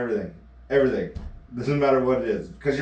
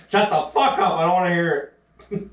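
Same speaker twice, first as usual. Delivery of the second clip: higher, exasperated brush-off; mock annoyed; 5 semitones higher, 3 dB louder than usual. Emma refusing to hear the joke, mock annoyance. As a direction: wave him off, fed up. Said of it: "That's what she says".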